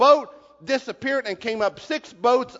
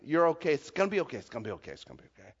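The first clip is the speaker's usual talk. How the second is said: trailing softer and lower to nothing; fading reassurance; 6 semitones lower, 7 dB quieter, much faster than usual. Retold or imitated. The teacher still murmuring to his grandson, fading out. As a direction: let the chant die away. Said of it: "I'm still saying".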